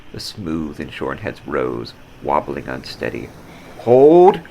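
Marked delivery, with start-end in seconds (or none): 3.8-4.4 loud, high barked order; commanding shout. Acted. Captain orders his soldiers to hold fire, shouted. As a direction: stop the whole line with one word.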